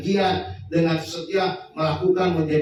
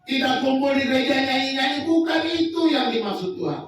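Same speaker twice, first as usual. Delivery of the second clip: preaching emphasis; 6 semitones higher than usual. Real, not acted. Preacher rebukes the congregation.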